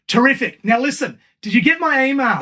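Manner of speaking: put-on a dad in English accent brushing it off. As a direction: son imitating his father in an English accent. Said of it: "And Dad, English accent".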